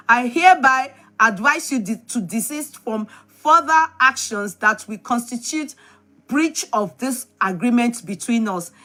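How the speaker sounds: measured read-aloud with deliberate pauses; formal letter reading. Real, not acted. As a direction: read out a legal notice, phrase by phrase. Reads a legal letter aloud.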